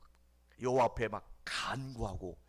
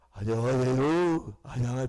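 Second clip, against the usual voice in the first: imitating a hoarse voice; 2 semitones higher, 10 dB louder than usual. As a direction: rasp out a hello with no voice left. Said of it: "목소리도 안 나와가지고".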